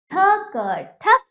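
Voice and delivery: थ, क, then ठक, each drawn out, high and loud; slow syllable demo. Shown as a demonstration. Teacher showing children how to say ठक, slow and loud. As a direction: spell ठक out slowly, then blend it. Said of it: "मेरे साथ आपको उच्चारण करना है".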